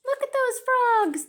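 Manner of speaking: delighted discovery, point them out; excited gasp. Real, not acted. Gasp at the frog picture.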